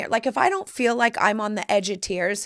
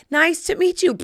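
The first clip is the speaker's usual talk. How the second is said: high, loud thrilled greeting; excited mom; 10 semitones higher, 6 dB louder than usual. Retold or imitated. Mom meeting the tour's star, imitated high excited greeting. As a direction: imitate an over-excited mother's hello. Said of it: "she got so excited".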